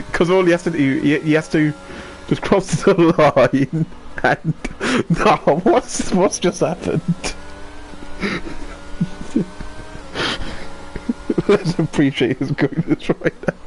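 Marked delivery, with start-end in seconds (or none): 2.3-11.5 high laughing disbelief; shocked laughter. Real, not acted. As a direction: laugh mid-sentence in shock. Laughing at crash.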